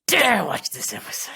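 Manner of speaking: playfully menacing; mock threat. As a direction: hold back, then punch out the warning.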